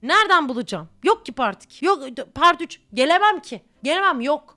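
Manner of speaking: loud, fed-up protest; exasperated outburst. Real, not acted. Complaining loudly to viewers about part two requests. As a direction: throw up your hands and complain loudly.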